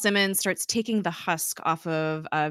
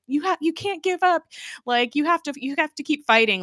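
acted desperate urging, much higher pitch; urgent urging; 10 semitones higher than usual. Fitz grabbing onto Coulson as he's sucked away, urgent. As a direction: urge them on in a high voice. Retold plea while gripping Coulson.

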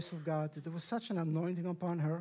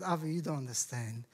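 lower, gentle reassurance; kind sister; 5 semitones lower than usual. Retold or imitated. Sister reassuring her brother about the retreat, kindly and low. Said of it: "she's so kind".

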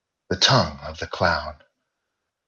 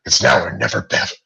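loud, urgent exclamation; exclaiming; 2 semitones higher, 7 dB louder, faster than usual. Acted. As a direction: urge her on, loud and urgent. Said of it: "Mike exclaimed".

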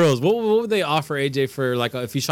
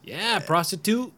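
harder; 7 semitones higher, 3 dB quieter, slower than usual. Shown as a demonstration. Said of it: "You gotta, like, go harder".

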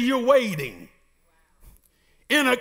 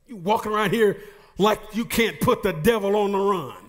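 urgent preacher's rhythm, building through the list; preaching. Acted. Preacher urging the church to kick the devil out, urgent preaching. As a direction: rouse the church to fight back.

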